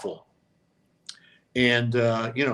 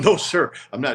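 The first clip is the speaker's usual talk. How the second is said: emphatic denial; 3 semitones higher, 4 dB louder than usual. Retold or imitated. Telling Walter he didn't talk, firm raised denial. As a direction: insist you said nothing, a touch raised. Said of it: "I'm going".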